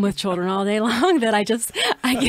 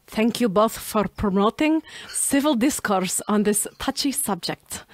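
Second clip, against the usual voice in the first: a slow, playful put-on Russian accent reading a review. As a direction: read it slowly like a Russian speaker, a bit hammed-up. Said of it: "Dichotomous in a Russian accent".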